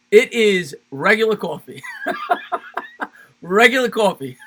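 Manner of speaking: giggling answer about the coffee; laughing. Real, not acted. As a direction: answer broken by high giggles. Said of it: "laughing through his answer".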